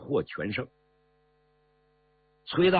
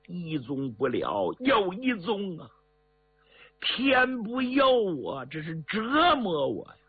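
wailing lament; 4 semitones higher than usual. Acted. Shengying laments his bitter fate.

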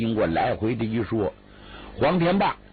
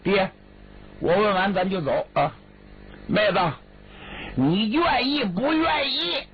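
much higher, sing-song coaxing; coaxing ultimatum; 10 semitones higher than usual. Acted. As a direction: wheedle her like a child, pitched way up. Brother's high coaxing ultimatum.

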